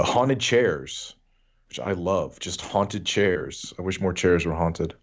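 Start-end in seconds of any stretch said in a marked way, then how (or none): 0.0-1.1 slow emphasis. Shown as a demonstration. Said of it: "repeated for emphasis". 2.4-3.7 haunted said very slowly, each syllable drawn out; slow, deadpan. Shown as a demonstration. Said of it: "repeated for emphasis".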